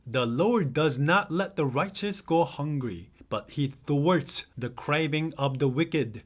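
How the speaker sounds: slow, careful read of the verse. Acted. Teacher reading a verse to English learners, slow and careful. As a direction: read each word out deliberately for learners. Reads verse aloud slowly.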